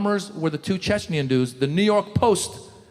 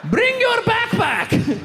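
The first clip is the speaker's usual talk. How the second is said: cheery friend; much slower than usual. Retold or imitated. Friend calling Muhammad, imitated.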